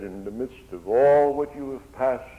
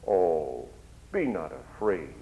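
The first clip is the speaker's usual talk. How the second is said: tender comfort; 5 semitones lower, slower than usual. Acted. Preacher voices Jesus calming fearful disciples, low and tender. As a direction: soothe frightened men. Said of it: "this melodious voice".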